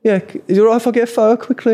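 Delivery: put-on fast, high Brummie boy begging; high quick Brummie teen; Birmingham kid accent. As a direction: rush the photo request like an excited fan. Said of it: "that was a good accent".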